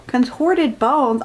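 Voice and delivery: slow, disbelieving repeat of contorted bones; dragging out Contorted bones? in disbelief; incredulous. Real, not acted. Reader mocking the book's words, slow disbelief. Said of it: "I don't think her bones are messed up".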